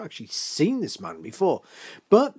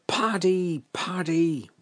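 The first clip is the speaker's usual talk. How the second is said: mildly raised, jeering call; children's shouting; slower than usual. Acted. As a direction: call out like village kids chasing him off. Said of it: "they're all shouting".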